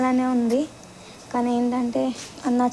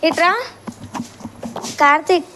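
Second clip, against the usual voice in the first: loud, higher call of a name; raised-voice summons; 5 semitones higher, 4 dB louder than usual. Real, not acted. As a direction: call a friend over. Calls Karthik again.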